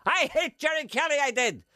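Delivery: high, loud mock outburst; retold outburst. Singer's host retelling his reaction, mock yell. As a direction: shout it in high-pitched protest. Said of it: "And I went".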